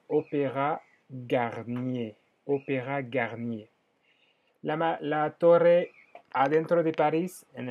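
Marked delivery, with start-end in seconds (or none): 0.1-3.7 "Opéra Garnier" despacio, con erre francesa; pronunciación francesa. Shown as a demonstration. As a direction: modela "Opéra Garnier" sílaba a sílaba. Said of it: "Se dice". (la profesora enseña cómo se dice "Opéra Garnier")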